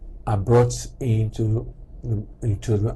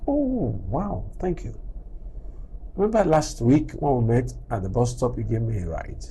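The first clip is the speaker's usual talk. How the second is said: remembering the favour with a pleased gasp; a lightly acted grateful greeting; delighted late thanks; 3 semitones lower than usual. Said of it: "And I take it further".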